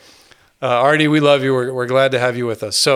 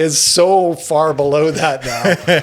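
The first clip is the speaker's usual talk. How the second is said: laughing; 2 semitones higher, much slower than usual. Real, not acted. Joking about failing memory.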